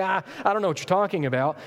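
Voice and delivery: fast, stammering fear; flustered, fast stammered denial; panicky denial. Acted. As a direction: blurt it out in a panic. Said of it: "now he begins to panic".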